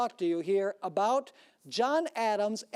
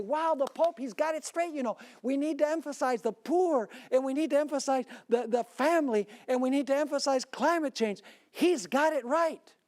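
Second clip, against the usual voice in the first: raised, louder gushing about the Pope; mocking enthusiasm; 4 semitones higher, 4 dB louder than usual. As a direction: mimic fans praising the Pope, a bit over the top. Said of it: "They say".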